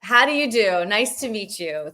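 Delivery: lightly faked British voice; mock posh British. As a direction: put on a hammed-up British accent. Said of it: "Let's, let's lean in fully".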